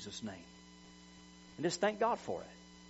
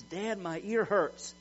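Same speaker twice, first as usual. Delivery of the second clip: put-on higher, drawn-out child's whine; mock crying; 4 semitones higher, much slower than usual. Son complains to his dad of an earache, mock crying. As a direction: imitate a tearful little boy, stretching the words. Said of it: "he was crying and he says".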